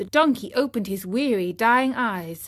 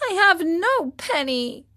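sad and ashamed; 7 semitones higher than usual. Acted. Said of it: "sad and ashamed".

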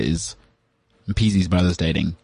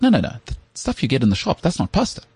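higher, insistent imitation of the friend; friend correcting him; 6 semitones higher than usual. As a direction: correct him like she's shocked at his ignorance. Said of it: "She's like".

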